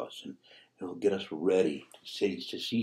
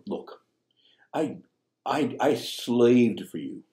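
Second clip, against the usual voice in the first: slow, halting, bitter complaint; mild mock resentment of the elder son to his father; resentful son; 3 semitones higher, slower than usual. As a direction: let the grudge drag out each word. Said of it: "the way he speaks to his father".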